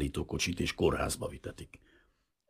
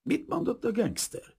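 annoyed question. A narrator's reading. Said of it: "kérdezte az amerikai bosszusan".

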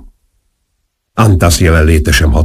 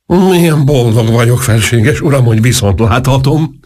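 áradozó öröm; 7 semitones higher than usual. A narrator's reading. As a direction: gush to a revered sovereign in a high voice. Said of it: "áradozott Antas". (magas hangon, túláradó örömmel)

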